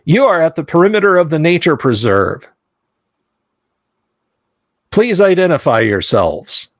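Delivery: lightly voiced mechanical robot. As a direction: speak it like a machine. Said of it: "this mechanical voice comes out and says".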